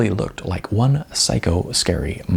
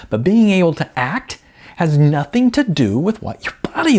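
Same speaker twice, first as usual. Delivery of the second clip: ranty; 6 semitones higher than usual. Acted. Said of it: "I got a little ranty there".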